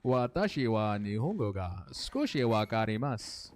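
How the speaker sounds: put-on Japanese line with a light anime-style accent; a hint of a fake Japanese accent. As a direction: show off a little Japanese in a mock accent. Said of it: "I got some of that Nippon accent in there".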